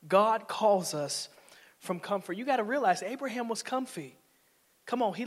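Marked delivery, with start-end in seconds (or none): 0.1-2.3 slow and louder, punched; slow, emphatic proclamation. Shown as a demonstration. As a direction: hit it slow and strong.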